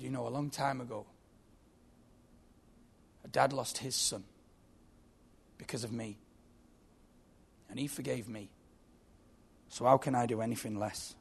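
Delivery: soft, measured, with long pauses; gentle forgiveness. Acted. Father forgiving his son's killer, gentle and subdued. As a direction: let each phrase settle quietly.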